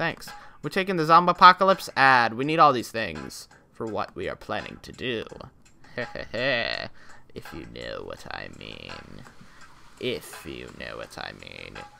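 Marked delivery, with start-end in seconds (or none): 7.3-11.8 very quiet, slow, creaky, obnoxious put-on voice. Joking about taking the Zombapocalypse ad: obnoxious put-on voice. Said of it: "I am talking in this obnoxious voice".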